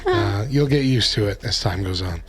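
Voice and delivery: raspy voice from bronchitis; hoarse, recovering throat; gravelly voice. Real, not acted. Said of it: "So I sound gravelly".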